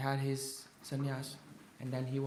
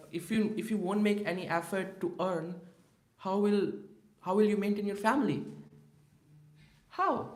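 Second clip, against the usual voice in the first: pressing challenge; 4 semitones higher, 3 dB louder than usual. Retold or imitated. Mahaprabhu scolds Srinivas.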